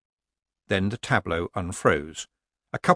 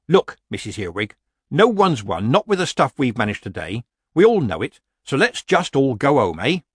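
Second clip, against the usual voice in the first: put-on blunt old witch, mildly exasperated; lightly voiced Nanny; 4 semitones higher, 4 dB louder than usual. Nanny urges Missus Earwig to go home, mildly exasperated. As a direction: reason firmly, a little raised.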